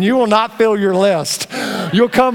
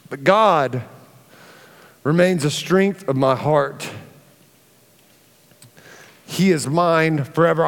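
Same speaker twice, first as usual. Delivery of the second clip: tender scripture reading; 3 semitones lower than usual. Acted. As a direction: let each word settle gently. Repeats verse softly.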